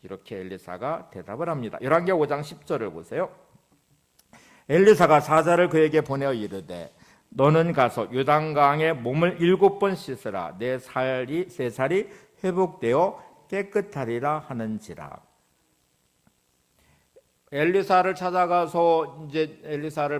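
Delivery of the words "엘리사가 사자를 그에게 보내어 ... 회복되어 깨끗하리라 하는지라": measured pulpit scripture reading, opening loud. Acted. Preacher reads Elisha's message from the Bible, declamatory reading. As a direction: read the verse out to the congregation, starting strong.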